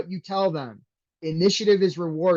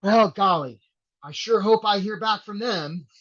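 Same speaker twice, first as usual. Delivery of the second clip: higher, hammed-up wide-eyed hoping; mock naive hope; 6 semitones higher than usual. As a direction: play a hapless applicant just waiting. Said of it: "are you like".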